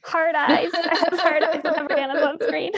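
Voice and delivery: excited. Real, not acted. Gushing about a favourite character.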